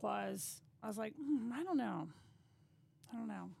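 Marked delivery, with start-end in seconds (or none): 1.2-2.1 hesitant, mildly skeptical hum; doubtful musing. Retold or imitated. Retold doubtful first impression. 3.1-3.5 softer, trailing-off repeat of I don't know; fading doubt. Retold or imitated. Retold doubtful first impression.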